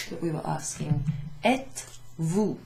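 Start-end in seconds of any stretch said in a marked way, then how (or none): 1.4-2.6 êtes-vous said slowly, the liaison clear; slow model pronunciation. Shown as a demonstration. Teacher slowly modelling êtes-vous for the class. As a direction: model the question for students to copy. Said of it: "teacher models the phrase".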